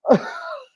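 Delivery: imitated wordless sobbing gasp; big boy crying. Shown as a demonstration. Man showing how hard he cried in bed, mock sobbing. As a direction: mimic a heaving, nearly silent sob. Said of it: "talking, like, big boy crying".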